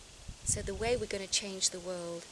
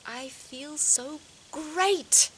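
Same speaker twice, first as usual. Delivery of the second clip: sing-song affirmation; 7 semitones higher, 6 dB louder, much slower than usual. Shown as a demonstration. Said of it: "I just got this little sentence".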